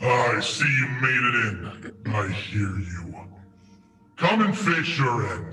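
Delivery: low voice echoing as if from around a corner. A game narrator voices an unseen figure speaking from around the corner, echoey voice. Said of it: "you're going to hear that same echoey voice".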